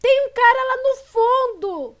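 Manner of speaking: high, very loud cry of "thief"; alarmed shouting. Acted. Girl spotting an intruder in the yard, shouting the alarm. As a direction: yell the alarm at full voice. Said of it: "comecei a gritar".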